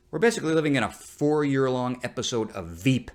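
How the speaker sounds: ordinary delivery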